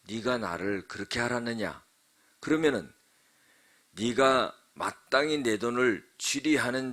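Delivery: measured, emphatic reading of a master's rebuke; scripture recitation. Acted. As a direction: recite it phrase by phrase, with weight. (또박또박 힘주어 읽는 성경 봉독)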